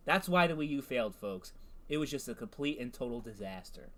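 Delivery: a light, understated Trump voice; a hint of Trump's rally cadence, landing on "folks"; Donald Trump impression. Streamer reads the AI's Trump answer in a light Trump voice. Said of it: "my Donald Trump voice is not good".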